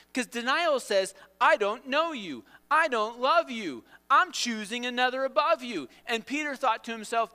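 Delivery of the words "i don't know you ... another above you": high, loud rejection; acted, emphatic renouncing; forceful disowning. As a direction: throw each rejection out hard. Voicing what denial says.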